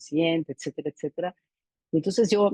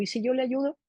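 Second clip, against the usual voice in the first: gentle offer; 9 semitones higher, faster than usual. Retold or imitated. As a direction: lift the voice and offer help tenderly. Ofrece ayuda a madre asustada. (oferta tierna, mucho más aguda)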